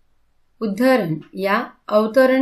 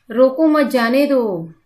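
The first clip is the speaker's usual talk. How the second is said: "रोको मत जाने दो" in one run, raised and louder; run together without a clear pause; 4 semitones higher, 4 dB louder than usual. Shown as a demonstration. Teacher shows pupils an ambiguous unpunctuated sentence, run together. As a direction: say "रोको मत जाने दो" higher and louder, leaving the break unclear. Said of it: "अभी इस वाक्य में".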